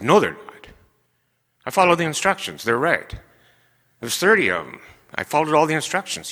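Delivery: insisting on being right; firm insisting. Retold or imitated. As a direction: stand your ground with your son-in-law. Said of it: "I was rude, I was mean".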